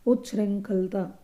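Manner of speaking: उच्छृंखलता said slowly with clear च्छ and ृ; slow teacher demo of उच्छृंखलता; careful pronunciation. Shown as a demonstration. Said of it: "शुद्ध रूप में कौन सा होगा".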